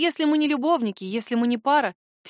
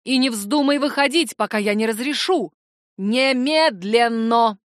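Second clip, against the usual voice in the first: stern order; 4 dB louder, slower than usual. Acted. Mother ordering daughter.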